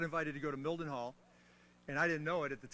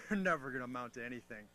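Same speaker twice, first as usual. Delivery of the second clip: lightly voiced scoffing elder; mock dismissive sneer; 3 semitones lower, 3 dB louder than usual. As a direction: dismiss them with a half-laughing sneer. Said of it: "we go".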